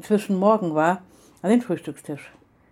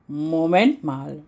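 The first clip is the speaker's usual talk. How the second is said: slow, drawn-out dawning realisation; first slow muttered take of the repeat; slow halting; 2 semitones lower, much slower than usual. Acted. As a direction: let it sink in word by word. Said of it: "stotterte sie".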